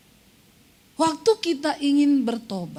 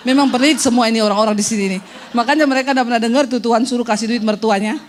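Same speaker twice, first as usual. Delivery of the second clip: fast, louder teasing jab; 3 semitones lower, 5 dB louder, faster than usual. Real, not acted. Preacher teases stingy congregants, fast and loud. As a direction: rattle off the joke quickly.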